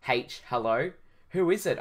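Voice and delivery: lightly voiced nervous call, lifting on the question; mild shrill exclamation, stammered start; exclaimed shrilly. Hero calling to an old man in the corner, mildly shrill. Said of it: "I exclaimed shrilly".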